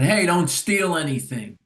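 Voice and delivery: retold yell. Store owner warning a kid who walked in, retold yell. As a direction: imitate a storekeeper calling out a warning. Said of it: "yelled at him".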